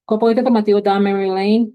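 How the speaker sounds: loud, lifted title announcement; proclaimed like a chapter title; announcing title. Real, not acted. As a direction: call out the heading. Teacher announcing the section title.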